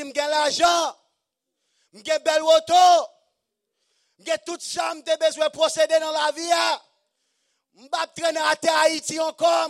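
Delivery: loud, high mock bragging; boastful rich church. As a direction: shout the boast like a proud rich man.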